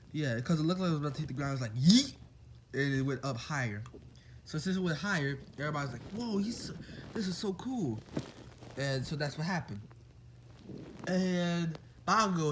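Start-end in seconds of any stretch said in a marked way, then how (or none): 1.8-2.1 playful yell. Retold or imitated. Narrating the ball launch. 6.1-8.0 high, hushed whisper of amazement; awed whisper. Retold or imitated. Classmates watching Deku's throw, awed hushed whisper.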